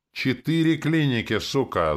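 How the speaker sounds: furious outburst; yelling. A narrator's reading. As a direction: scream it at him. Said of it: "заорал Ярик".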